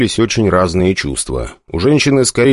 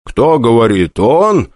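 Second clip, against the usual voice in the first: mocking; 3 semitones higher, slower than usual. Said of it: "кривлялся я".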